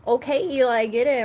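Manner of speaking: loud call to the dog. Real, not acted. Calling the dog excitedly.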